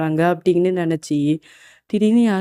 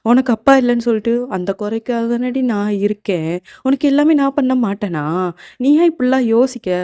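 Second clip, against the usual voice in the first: higher, insistent reassurance; earnest protest; 4 semitones higher, 3 dB louder than usual. Acted. Uncle telling fatherless niece he is there for her, earnest protest. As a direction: protest with feeling, pitch climbing.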